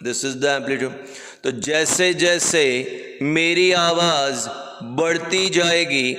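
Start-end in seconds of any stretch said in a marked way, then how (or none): 1.4-6.1 projected, emphatic demonstration voice; raised voice. Shown as a demonstration. Teacher showing students rising amplitude, in a raised voice. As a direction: push the voice out, slightly raised. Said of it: "काफ़ी ज़ोर से बात कर रहा हूँ".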